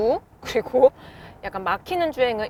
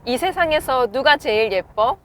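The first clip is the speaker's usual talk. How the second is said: talking to voice assistant; 4 dB louder than usual. Real, not acted. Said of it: "또 하나 물어볼게요".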